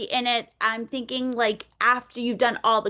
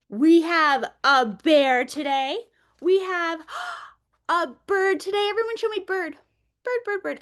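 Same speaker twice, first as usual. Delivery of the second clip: lively teacher voice; 4 semitones higher than usual. Shown as a demonstration. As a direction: announce the animals to little kids with wonder. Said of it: "I would pull out the manipulatives and say".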